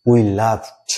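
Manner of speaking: laughed with a wide open a; open vowel. Shown as a demonstration. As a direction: model laughed, mouth open. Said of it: "এর উচ্চারণটা আসতে হবে we laughed". (খোলা মুখে laughed)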